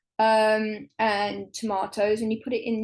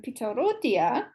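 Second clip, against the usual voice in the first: self-mocking try at Greek "pita rhodia"; attempted Greek accent; 2 semitones higher than usual. Real, not acted. Guest naming a favourite Rhodian dish, in an attempted Greek accent. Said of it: "with my terrible Greek accent".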